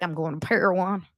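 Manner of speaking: mock glum, voice dropped from the gushing; sad Mary. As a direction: imitate a depressed, resigned woman. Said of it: "like, happy sad".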